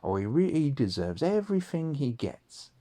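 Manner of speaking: mock gossiping dinner lady; lightly voiced spiteful dinner lady. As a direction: sneer like a school gossip. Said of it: "And they said".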